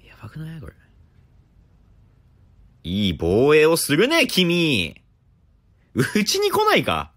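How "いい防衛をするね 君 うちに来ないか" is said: smug recruiter. Pretend. Praising the opponent as a recruiter.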